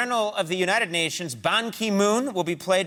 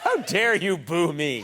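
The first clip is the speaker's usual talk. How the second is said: slow, hammed-up wounded pride; slowed mock-offended scolding; mock indignation; slower than usual. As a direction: scold the crowd in mock hurt. Mock offense at audience boos.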